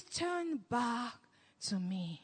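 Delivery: hushed and low, God calling his people home; soft God voice. Retold or imitated. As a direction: murmur it like a still small voice. God's voice retold to the listener.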